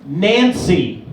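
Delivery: low-pitched put-on reply; old stripper correcting. Old stripper customer correcting her name, low voice. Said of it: "And she goes".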